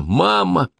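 high desperate call; calling out again. A narrator's reading. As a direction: call her back.

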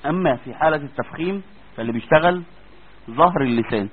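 ordinary delivery

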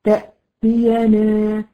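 تأتينا spoken slowly with each letter clear; slow demo word. Shown as a demonstration. Teacher reciting تأتينا slowly as a quiz for students. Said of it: "أقول لك إيه مثلًا كلمة".

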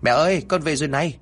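put-on happy boy announcing his catch to mother; cheerful son. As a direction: son calls to his mother, proud of the big carp. Son returns home cheerfully.

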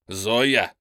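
громкий отчаянный оклик; крикнуть через запертую дверь; крик. A narrator's reading. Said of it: "крикнул он". (громко позвать в отчаянии)

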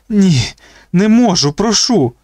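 put-on boy begging not to be dunked; desperate begging. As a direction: plead for mercy.

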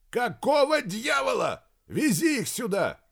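high, exasperated outburst; angry demand. A narrator's reading. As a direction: demand it, voice pushed right up. (сердито, срываясь на крик)

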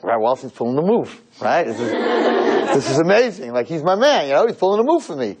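mildly excited imitation of a fiancée. Girlfriend thrilled the rabbi is helping, mildly excited retelling. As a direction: retell her delight with a light lift. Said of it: "she's all excited".

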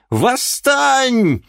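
Восстань shrieked at the peak; rising shout. Acted. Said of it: "крикнула ведьма".

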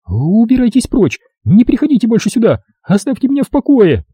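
высокий, резкий голос испуганной женщины; гонит незваного гостя в ужасе; испуганная вдова. A narrator's reading. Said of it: "с выражением смертельного ужаса". (вдова в ужасе гонит рассказчика от двери)

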